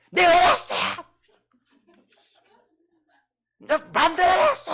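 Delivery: put-on high, loud childish yell of defiance; a child yelling at a parent that he did as he pleased; defiant child shouting. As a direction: shout it back like a rebellious kid. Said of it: "만약에 여러분 자식들이".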